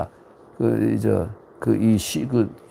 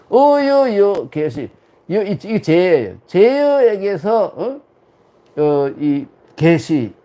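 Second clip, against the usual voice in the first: slow recitation; 4 semitones higher, much slower than usual. Shown as a demonstration. Classical text read out.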